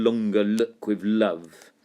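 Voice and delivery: "longer look with love" slowed, each L leaned on; alliteration stressed. Shown as a demonstration. Teacher points out the L alliteration, slow and leaning on each L. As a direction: lean on the L sounds, slowly. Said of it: "quite a lot of L alliteration".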